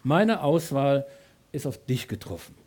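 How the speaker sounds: very slow, unraised and fading. Acted. God quietly telling the believer he is chosen, very slow. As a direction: let it settle quietly. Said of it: "Gott sagt".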